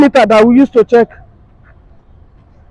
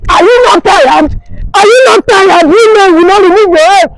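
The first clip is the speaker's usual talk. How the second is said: crying shout; 4 semitones higher than usual. Acted. Husband breaks down crying.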